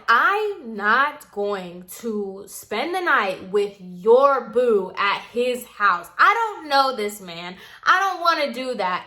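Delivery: mildly angry retort, stressed and drawn out at first. Retold or imitated. Refusing friend's plan to stay over, mild retold anger. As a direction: retell it as an indignant, emphatic refusal. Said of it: "I'm getting angry with her".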